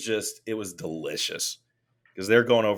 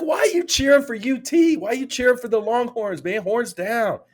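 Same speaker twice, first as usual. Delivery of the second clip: high, loud, hammed-up taunting; playful over-the-top jeering; mock rant; 6 dB louder than usual. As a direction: taunt the rival fan in an exaggerated raised voice. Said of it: "I went off on the guy".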